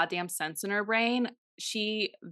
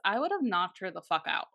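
ordinary talk, nothing marked

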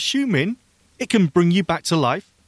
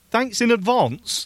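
posh voice; 7 semitones higher, slower than usual. Retold or imitated. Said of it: "They're very posh here".

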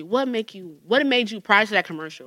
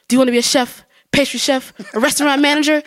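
upbeat commercial pitch, lightly imitated; ad announcer voice; 5 semitones higher, 4 dB louder than usual. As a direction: sell it like a TV ad. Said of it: "the next commercial was".

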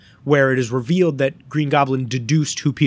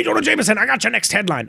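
put-on much higher Southern-accented villain taunt; Southern Goblin threat; 7 semitones higher, faster than usual. Goblin leaving a threatening voicemail, Southern accent mock shout. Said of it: "Again, Southern".

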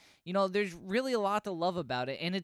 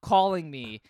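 louder, exasperated phone brush-off; mock annoyed; 3 semitones higher, 6 dB louder, slower than usual. Spider-Man answering Howard's unwanted call, mock exasperated. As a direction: play fed up with the caller.

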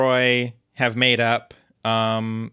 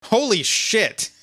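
stunned; 8 semitones higher, slower than usual. Real, not acted. Stunned reaction to car price.

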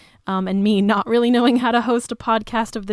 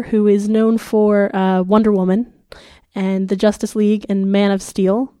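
muffled voice with a sore throat; sick voice; 5 dB louder than usual. Real, not acted. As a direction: talk like your throat is swollen and sore. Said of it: "if it sounds like I have cotton balls in my mouth".

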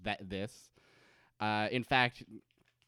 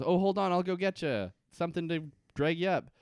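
Locke voice; 6 semitones higher, 4 dB louder than usual. Retold or imitated.

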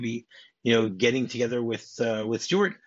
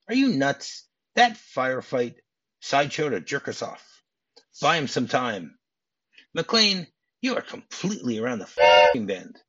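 mock outraged yelling; 2 semitones higher, 3 dB louder than usual. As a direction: play the angry boss arresting the cop. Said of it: "He goes".

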